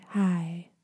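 low, drawn-out greeting mocking meditation guides. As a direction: mimic a lame meditation host. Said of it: "hearing people's meditation voice. They're like".

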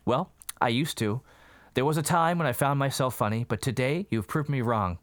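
sarcastic. Retold or imitated. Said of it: "totally sarcastic".

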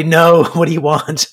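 amused reply with a small laugh; imitating a chuckling prospect. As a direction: chuckle lightly through the question. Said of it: "most people kinda chuckle and say".

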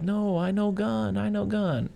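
high, slow robot voice insisting; a giant robot begging, pitched high and slow; hammed-up wounded robot plea; pleading robot. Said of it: "the monster's like".

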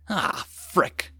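breathy under-breath curse; muttered curse. A narrator's reading. Sergeant realizing the danger, quiet curse. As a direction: swear softly to yourself.

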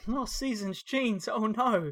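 slow, high fake dismay; mock horror. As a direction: gasp in pretend shock.

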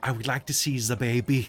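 Werner Herzog voice. Retold or imitated. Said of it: "I'm aiming for Werner Herzog".

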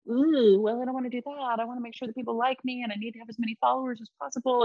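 quick anxious inner monologue, rattled off; mock inner voice. Woman imitating her own anxious thoughts, rushed. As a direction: play the worried people-pleaser in your head.

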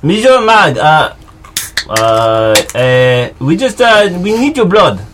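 put-on light Russian accent slipping in; hesitant mock Russian plea to the troll. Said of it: "I'm going Russian again".

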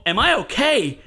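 squeaky and giddy after the fight; high excited squeak. Retold or imitated. Answering friends in a high giddy squeak. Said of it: "And I go".

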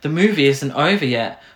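half-hearted imitation of an interrupting cartoon kid; attempted French mouse. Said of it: "I can't do a French mouse accent".

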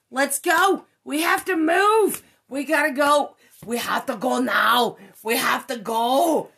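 loud, high frantic shouting; panicked yell. Retold or imitated. Yelling at her friend to flee the figure, frantic shout. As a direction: yell at him to get out now.

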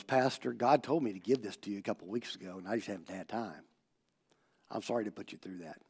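low, very soft apology; tearful, retold gently. Crying friend apologizing to his pastor, retold softly and tearfully. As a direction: retell a tearful man's words, hushed and low. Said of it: "And he starts crying".

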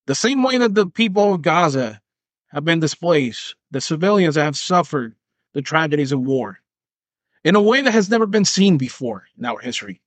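half-serious ad voice; mock political ad. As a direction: play a solemn campaign spot.

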